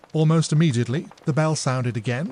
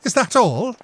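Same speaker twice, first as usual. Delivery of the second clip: laughing; 10 semitones higher, 8 dB louder than usual. Acted. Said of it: "laughed Emily".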